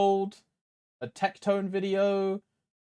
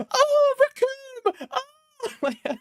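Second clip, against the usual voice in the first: much higher, slow wail of the name; mock anguished cry; 3 dB louder, much slower than usual. Streamer wailing the villain's name in mock despair. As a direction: cry out like a cartoon victim.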